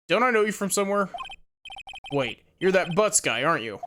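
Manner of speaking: lightly voiced tough-guy cop; a hint of a brusque detective warning off a stranger; gruff detective. Player voices Detective Gumshoe.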